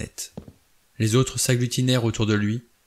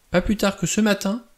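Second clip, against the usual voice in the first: very high, accusing cry; shrieked accusation, pitch far up; 10 semitones higher than usual. A narrator's reading. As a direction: throw it at them in agitation. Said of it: "s'écria Vera".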